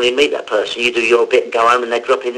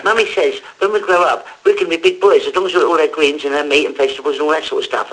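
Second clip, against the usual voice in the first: a hint of a little kid reciting; four-year-old's advert line. Child actor reciting his nappy ad line, lightly voiced four-year-old. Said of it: "I was playing the four-year-old".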